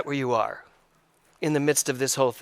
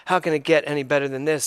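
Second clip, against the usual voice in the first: dry mocking rhetorical question; sarcastic; 2 semitones lower, faster than usual. Shown as a demonstration. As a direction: say it like you don't believe a word.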